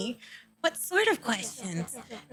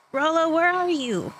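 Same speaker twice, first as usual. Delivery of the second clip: raised worried call; calling out loud; 6 semitones higher, 3 dB louder than usual. Acted. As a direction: shout for a lost friend. Calling for missing friend.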